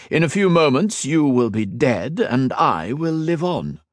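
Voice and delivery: triumphant emperor. A narrator's reading. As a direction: lord it over the last foe. Villain voiced in narration.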